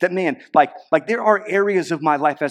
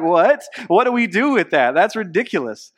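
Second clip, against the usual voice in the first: mock baffled outburst, higher and louder; baffled crowd; 5 semitones higher, 5 dB louder than usual. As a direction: play the stunned listeners, half joking. Crowd reacts to Peter's sermon.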